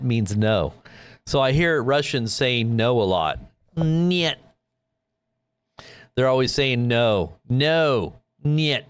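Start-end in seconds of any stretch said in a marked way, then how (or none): 3.8-4.3 a playful mock Russian "Niet". Imitating Russians saying no. 7.5-8.8 playful mock Russian "No", "Niet". Imitating Russians saying no.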